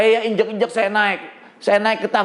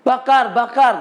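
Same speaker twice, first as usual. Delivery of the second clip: higher-pitched mock crowd cry; retold mob shout; 4 semitones higher than usual. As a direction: imitate townspeople calling out, not at full volume. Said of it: "masyarakat teriak". (tiruan teriakan masyarakat)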